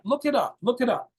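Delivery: usual speaking voice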